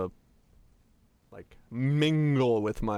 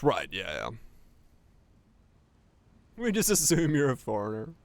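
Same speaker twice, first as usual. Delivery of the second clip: ordinary talk, nothing marked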